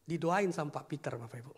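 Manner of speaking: normal talking voice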